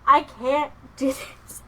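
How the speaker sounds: high, loud, slow plea; real emotional protest, slow and loud; overwhelmed. Real, not acted. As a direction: drag it out high, at breaking point. Overwhelmed by the game's story.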